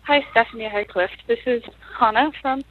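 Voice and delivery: panting a little after climbing stairs; breathless, catching her breath between words. Real, not acted. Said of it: "Sorry, I'm a little out of breath 'cause I just".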